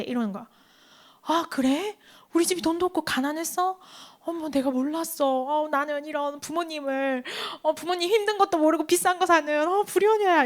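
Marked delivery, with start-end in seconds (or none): 1.2-10.4 soft, guilty mock self-reproach; remorseful child. Preacher recalls her childhood guilt over buying something expensive, acted remorseful and soft. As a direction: play a child softly owning up to herself. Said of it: "이렇게 생각을 했단 말이야".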